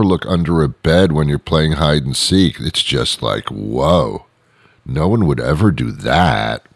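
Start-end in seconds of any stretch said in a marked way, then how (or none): 2.6-6.7 low-pitched, sarcastic mock amazement; deadpan sarcastic wonder. Shown as a demonstration. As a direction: feign being impressed, drily. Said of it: "I'm being sarcastic".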